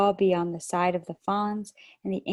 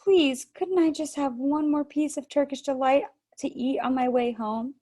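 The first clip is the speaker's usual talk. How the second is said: put-on higher, begging little boy voice; pleading boy; 7 semitones higher than usual. A narrator's reading. Greedy boy begging the Queen for more Turkish delight, pleading. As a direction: wheedle for one more sweet. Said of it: "said Edmund suddenly".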